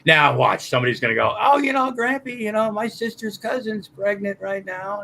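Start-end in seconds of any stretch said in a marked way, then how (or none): 1.4-5.0 higher-pitched mock chatter, lightly put on; imitating a chatty interrupter. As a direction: mimic someone butting in with their news. Mimicking a hypothetical chiming-in listener.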